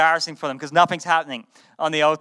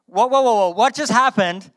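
surprised; 6 semitones higher, 4 dB louder than usual. Real, not acted. Preacher reacts to Elijah fleeing.

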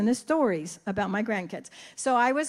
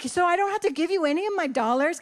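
higher, playful disbelief; mock surprise; 5 semitones higher, faster than usual. Nana teasing grandson about her dollars, mock amazed. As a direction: tease the grandson with fake amazement. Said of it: "I'm like".

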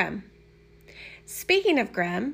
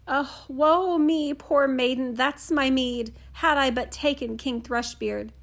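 lament; 3 semitones higher than usual. Acted. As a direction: bewail your fate like a ruined princess. Princess laments her choice.

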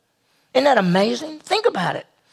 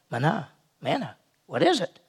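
"Manna, manna" said softer, puzzled, as a question; puzzled wondering; 5 dB quieter than usual. Retold or imitated. Israelites find food on the ground, puzzled. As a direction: wonder aloud at the strange food. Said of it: "and they went".

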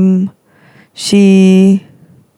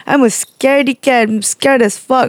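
high, pleading mock panic that eases toward the end; scared pleading whine; 6 semitones higher than usual. Student begging sensei to stop scary talk, high whiny panic. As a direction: beg the teacher to stop like a scaredy cat. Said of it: "almost, like, screaming at her".

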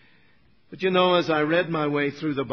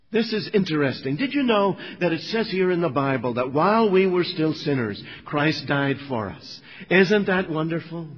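louder, raised eager sharing; eager witness; 3 semitones higher, 3 dB louder than usual. Retold or imitated. Young Christian sharing a verse with workmates at tea break, eager. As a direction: share it keenly, like good news. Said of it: "He might say something like this".

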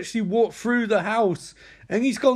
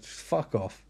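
low, soft brush-off; acted worn-out murmur; weary dismissal; 9 semitones lower, 7 dB quieter than usual. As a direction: send them away quietly. Voicing defeated father dismissing people.

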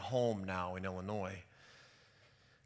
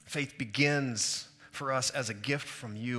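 spoken prayer; 4 dB louder than usual. Real, not acted. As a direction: address God earnestly, unhurried. Leads the congregation in prayer.

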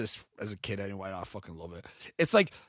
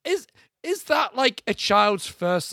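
rising emphasis; 7 semitones higher, 3 dB louder, slower than usual. Real, not acted. Rhetorical question, pitch jumps.

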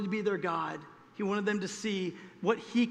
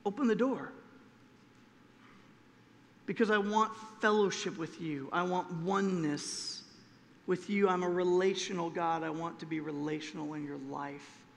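tender invitation; 4 semitones lower, 4 dB quieter than usual. Retold or imitated. God asking a person for fellowship, tender and soft. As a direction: gently ask them to open up. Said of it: "God says".

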